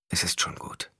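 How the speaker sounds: quiet, almost unvoiced; softly. A narrator's reading. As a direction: say it gently under the breath. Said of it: "sagte er leise".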